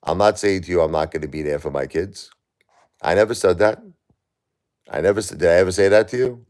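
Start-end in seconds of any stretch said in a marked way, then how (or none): 3.0-6.5 higher, louder, insistent protest; indignant and fast on the second line; heated denial. Real, not acted. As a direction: push back hard on the claim.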